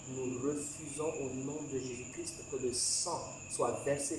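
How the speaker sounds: insistent intercession for the nation; leading prayer. Real, not acted.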